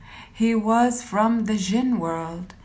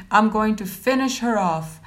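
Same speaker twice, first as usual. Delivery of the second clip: mild snap; 2 semitones higher, 3 dB louder than usual. Acted. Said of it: "he snapped back".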